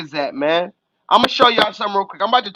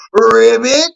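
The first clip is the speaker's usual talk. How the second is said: loud mock croak; 6 dB louder than usual. Taunting actor as frog.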